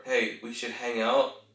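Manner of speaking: "Hey, we should hang out" slowly, lifting at "out"; question intonation. Shown as a demonstration. Coach showing an unsure invitation, as a question. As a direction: let "out" rise as if asking. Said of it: "one is a question".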